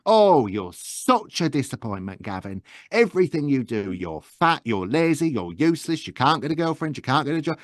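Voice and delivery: lightly voiced terrible mother nagging her son; a hint of a scornful northern mum; Gavin's mother. Mother belittling her son Gavin, mild mock scorn. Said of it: "this terrible woman".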